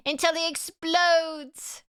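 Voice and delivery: high, slow ominous narration; dramatic slow narrator. Shown as a demonstration. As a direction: draw it out like a trailer voice. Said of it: "dramatic repeat".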